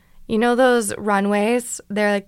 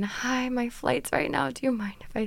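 mock polite whisper; 3 semitones higher, 6 dB quieter than usual. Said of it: "having to ask everyone in every line".

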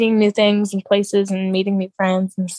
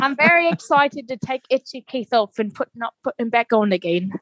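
lightly put-on British accent; retold quote with a mild British accent. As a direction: imitate a British accent in passing. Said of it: "With that British accent".

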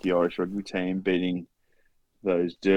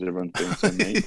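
mocking whine; 9 semitones higher than usual. Mocking Kiwi complaint.

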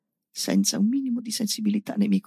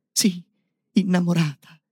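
defiant; 6 dB louder than usual. Acted. Robot insists defiantly on love.

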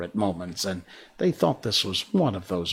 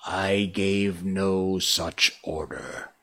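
shaking; 3 semitones lower, slower than usual. Acted. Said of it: "he said, shaking a little".

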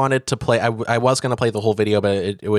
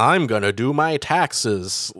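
white guy parody voice; slower than usual. Retold or imitated. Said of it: "like, voice".

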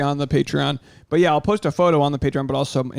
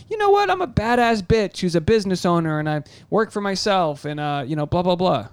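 much higher, cocky boast; hyped self pep talk; 4 semitones higher than usual. Retold or imitated. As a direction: pump yourself up like a badass. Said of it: "it never ends with you going".

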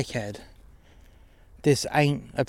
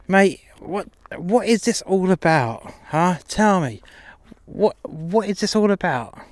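high-pitched demand; 5 semitones higher than usual. Acted. Pimp demanding to know why he's being called out, high and rattled.

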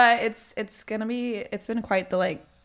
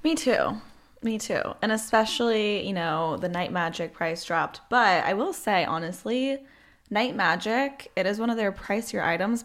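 upbeat sponsor read. Acted. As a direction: sell it like a podcast ad.

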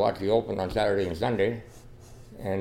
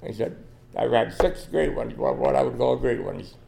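emotional retelling; 3 semitones higher, 3 dB louder than usual. Real, not acted. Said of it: "now I get so emotional".

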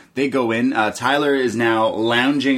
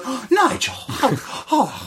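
squeaky high imitation of Beth; a much higher coy voice; high mock woman voice; 13 semitones higher than usual. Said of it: "And she goes".

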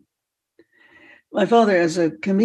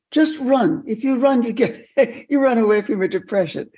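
higher, emphatic friendly advice; retold friend's urging; 5 semitones higher than usual. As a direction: urge someone to just run.

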